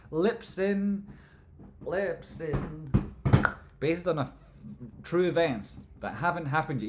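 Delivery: big excited promo read; hyped trailer voice. Acted. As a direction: announce it like a trailer.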